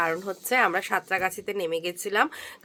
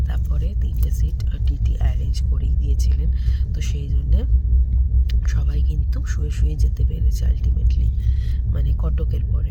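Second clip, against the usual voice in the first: speaking softly. Real, not acted. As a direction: keep it down so nobody sleeping nearby wakes. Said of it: "আমি এখনো আস্তে আস্তে কথা বলছি". (ঘুমন্ত লোকের পাশে আস্তে, চাপা গলায়)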